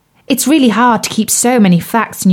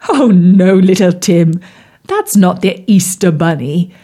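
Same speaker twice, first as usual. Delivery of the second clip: frog prince voice. Acted. Bertie the frog's voice.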